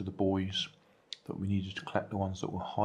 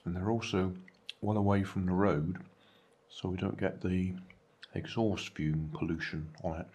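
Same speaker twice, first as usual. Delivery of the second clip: talking with mouth full; 3 semitones lower than usual. Real, not acted. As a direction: speak around a mouthful of food. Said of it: "Sorry about talking with mouth full".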